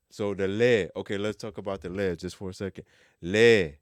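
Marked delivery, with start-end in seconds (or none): 3.2-3.7 Le said loud with the E stressed; le with a strong stressed E. Shown as a demonstration. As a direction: hit the E of Le hard. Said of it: "we're gonna stress the E".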